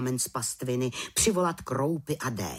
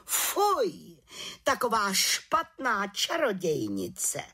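high, slow scandalised head witch voice; head witch scandalised by the good little witch; indignant outcry; 10 semitones higher, slower than usual. A narrator's reading. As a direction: cry out in outrage, drawn out. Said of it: "pohoršeně vykřikla".

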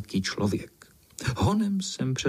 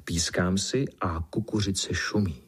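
ordinary delivery

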